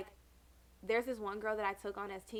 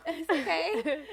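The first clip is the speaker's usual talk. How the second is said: laughing whisper; 6 semitones higher, 7 dB louder, much slower than usual. Real, not acted. Laughing reassurance.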